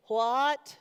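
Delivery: put-on a hard-of-hearing old man barking a question; surprised loud what. Old man in wheelchair not hearing.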